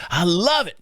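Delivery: lightly imitated delight, swooping on "love"; put-on enthusiasm; mock gushing. Retelling older coworker gushing about job.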